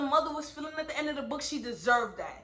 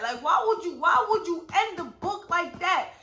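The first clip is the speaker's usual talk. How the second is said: a louder, exasperated third ask; still mad; 4 semitones higher, 5 dB louder than usual. Real, not acted. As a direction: keep pressing the author, loud. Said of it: "I'm still so mad".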